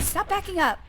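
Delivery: high exasperated shout; frustrated yell. Real, not acted. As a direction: yell at it to stop. Frustrated at fleeing enemy.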